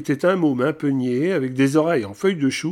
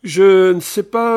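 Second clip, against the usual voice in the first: objection; 5 semitones higher, 9 dB louder, slower than usual. A narrator's reading. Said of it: "objecta-t-elle".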